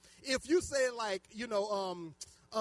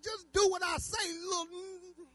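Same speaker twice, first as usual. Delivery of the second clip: high, mock-angry parental order; exasperated parent laying down the law; mad parent; 10 semitones higher, slower than usual. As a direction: order the child, worked up and raised. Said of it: "'Cause I got mad".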